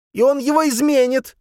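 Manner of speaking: alarmed shout; exclaiming loudly. A narrator's reading. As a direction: Soliman crying out in alarm. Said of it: "вскричал Сулейман".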